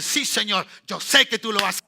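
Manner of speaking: loud, fervent believer's cry; loud voiced prayer. Preacher voicing a believer rising from prayer, loud. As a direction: proclaim it like a renewed believer rising up.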